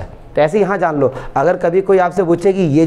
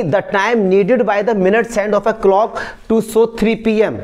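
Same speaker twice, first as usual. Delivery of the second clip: slow reading; 3 semitones higher, much slower than usual. Shown as a demonstration. Teacher rereads the question.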